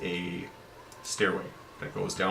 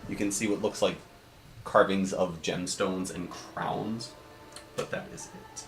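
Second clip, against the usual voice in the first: game master scene setting; 3 dB quieter than usual. A narrator's reading. DM describing the carved stone door to the party, measured and soft. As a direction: lightly read dungeon description, a bit softer.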